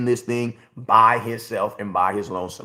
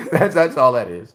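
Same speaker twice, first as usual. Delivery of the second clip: laughing through it; 4 dB louder than usual. Real, not acted. Laughing at his own point.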